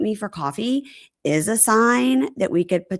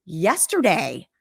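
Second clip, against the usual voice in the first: higher-pitched mock indignation; exasperated, acted-out complaint; indignant rant; 6 semitones higher than usual. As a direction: imitate a jilted woman protesting. Acts her indignant rant.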